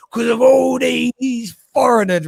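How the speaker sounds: high, drawn-out indignant whine; mock aggrieved rant. Homeless man on Question Time blaming foreigners, mock aggrieved.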